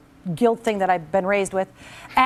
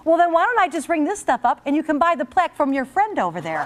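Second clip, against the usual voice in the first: snippy cashier; 4 semitones higher than usual. Retold or imitated. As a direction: imitate the rude cashier lightly. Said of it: "So she says to me".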